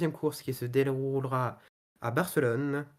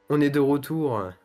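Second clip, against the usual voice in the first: excited; 8 dB louder than usual. Real, not acted. Commentator back from a pause.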